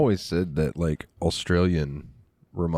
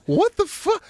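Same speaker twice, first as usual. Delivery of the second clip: high-pitched exasperated yell; mock outrage; 4 dB louder than usual. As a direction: yell it in exaggerated disbelief. Mock outrage in retold argument.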